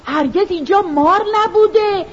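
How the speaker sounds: frightened cry. Acted. Mother sees snakes and scorpions at the door, frightened wail. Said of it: "با ترس و لرز فریاد زد".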